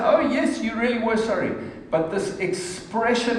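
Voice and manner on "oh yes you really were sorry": high mock-sarcastic oh yes; dry sarcasm, lifted on Oh; sarcastic reply. Husband retelling a sarcastic reply to his wife, mock-sarcastic. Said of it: "and I would say".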